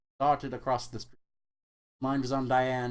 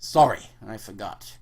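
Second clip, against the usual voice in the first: mocking; 3 semitones lower, 7 dB louder than usual. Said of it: "replied mockingly".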